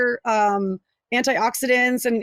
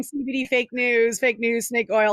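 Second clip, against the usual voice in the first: mocking husband; slower than usual. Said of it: "he's, like, always crying".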